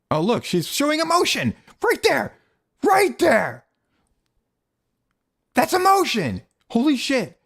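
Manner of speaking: sarcastic. Real, not acted. Sarcastic praise of actress's emotion.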